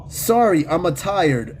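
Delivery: lightly voiced cartoon Italian plumber; a hint of a video-game plumber's accent; Mario. Host reads out the eight ball's answer, light Mario imitation. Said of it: "it talks like Mario do".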